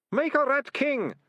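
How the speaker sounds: very high, loud confessing wail; bursting out. Acted. Deputy ratcatcher blurting his guilty secret, bursting out. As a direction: burst out with it in desperation. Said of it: "Ratcatcher Two burst out".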